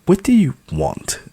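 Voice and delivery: sharp snapping retort. Acted. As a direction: snap back at her. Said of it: "Natalie snaps at me".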